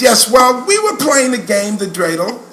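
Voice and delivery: lightly imitated New York schoolteacher; a prim phone report in a New York accent. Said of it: "She had that New York accent".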